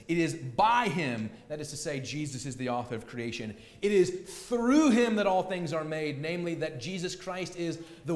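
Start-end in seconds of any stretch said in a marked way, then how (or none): 0.1-1.3 BY hit louder and held; slow down and lean on "by"; stress on BY. Shown as a demonstration. Preacher showing Paul's emphasis to the congregation, stress on BY. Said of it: "Notice the emphasis". 3.8-5.1 THROUGH punched louder, then falling; stress on THROUGH. Shown as a demonstration. Preacher showing Paul's emphasis on Christ in creation, stress on THROUGH. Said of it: "Notice the emphasis".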